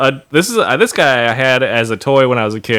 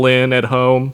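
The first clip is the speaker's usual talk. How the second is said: ordinary talk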